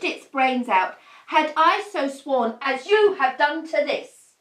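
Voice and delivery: grand stage-verse delivery, mildly heightened; Shakespearean declaiming. Acted. Wife lecturing her husband in grand theatrical verse. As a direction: proclaim it like a tragic queen. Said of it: "Why are you talking like this?".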